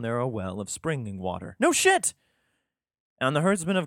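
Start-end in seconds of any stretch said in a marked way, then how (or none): 1.6-2.1 much higher, louder sarcastic yelp; mock amazement. Real, not acted. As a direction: fake surprise, shoot way up. Sarcastic reaction to Bible text.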